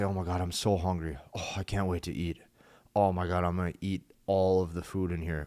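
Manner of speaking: exaggerated hungry moan; hungry groan. Shown as a demonstration. Playful hungry groan to his date at the table. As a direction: ham up how hungry you are. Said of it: "you sit down, you say".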